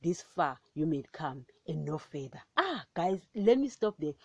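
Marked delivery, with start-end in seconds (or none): 0.0-2.4 measured, solemn Bible reading; scripture reading. Acted. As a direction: read it as the word of God. Reads Job 38 aloud.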